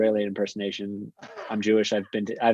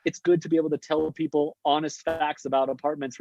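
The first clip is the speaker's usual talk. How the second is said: excited; 5 semitones higher than usual. Real, not acted. Laughing defensive explanation.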